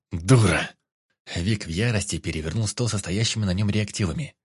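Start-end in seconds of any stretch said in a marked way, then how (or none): 0.1-0.7 angry insult. A narrator's reading. Vik in rage.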